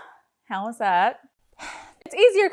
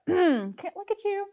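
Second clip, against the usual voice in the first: choked up; 10 semitones higher than usual. Real, not acted. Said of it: "it's making me tear up".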